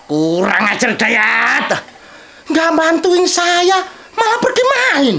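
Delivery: angry. Acted. Father angry at absent son.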